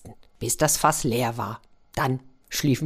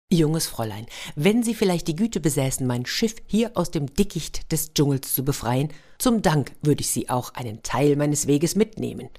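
tin soldier. Acted. Tin soldier formal speech.

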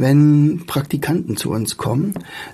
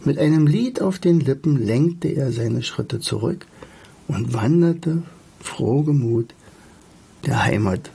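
expressive reading with lively dialogue; story narration. A narrator's reading. Bumblebee urges Alltag to return home, story narration. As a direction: read the tale, pausing between phrases.

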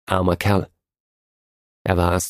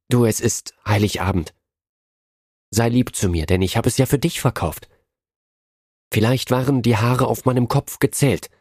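earnest tenderness; 3 semitones higher than usual. A narrator's reading. Della asking Jim on Christmas Eve to be kind, tender. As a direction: speak to him with sudden loving seriousness. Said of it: "mit einer plötzlichen ernsthaften Zärtlichkeit".

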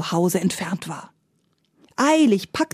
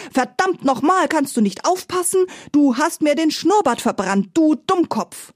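high furious boar voice, much higher; screaming boar; 7 semitones higher than usual. A narrator's reading. Boar chasing Paddy with the spit, high angry shriek. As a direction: shriek the insults while chasing him. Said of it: "schrie dabei".

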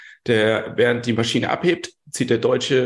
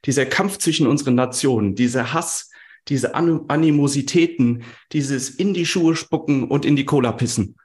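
theatrical lament; overacted tragic plea; hammy stage actor; 2 semitones higher than usual. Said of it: "Theatralisch fragt er".

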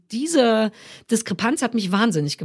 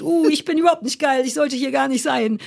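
mock hysteria, self-doubting; 3 semitones higher than usual. Author imitating the impostor side of premiere nerves, hysterically unworthy. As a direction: play a hysterical crash of confidence. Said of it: "ich hatte von beiden die Hysterie".

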